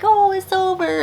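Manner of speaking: high mock relieved sigh of a voice; mock relief. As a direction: say it like you think you won. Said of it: "They're like".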